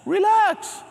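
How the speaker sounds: high-pitched mock coach yell; yelled relax. Coach ordering scared athlete to relax, yelling it. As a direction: burst out with a drawn-out shout. Same word, suddenly yelled.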